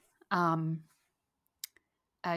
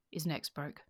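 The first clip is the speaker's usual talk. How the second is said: odd voice; 3 semitones lower, 6 dB quieter, slower than usual. Acted. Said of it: "he said in an odd voice".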